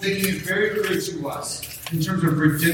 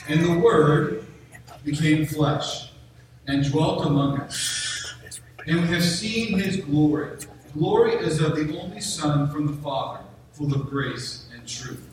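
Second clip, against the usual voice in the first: scripture reading. Acted. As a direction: read the Gospel aloud with weight and pauses. Reads John aloud to congregation.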